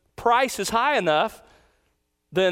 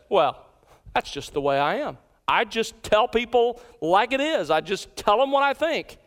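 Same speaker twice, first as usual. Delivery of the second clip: proud, unapologetic; 2 semitones higher than usual. Acted. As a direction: play someone lightly boasting of their own bluntness. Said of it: "proud of their lack of self-control".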